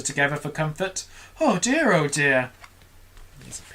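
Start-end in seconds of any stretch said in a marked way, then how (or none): 1.4-1.9 high, fretful oh dear; worried murmur. Acted. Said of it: "they murmured". 1.9-2.5 resigned worried murmur. Acted. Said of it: "they murmured".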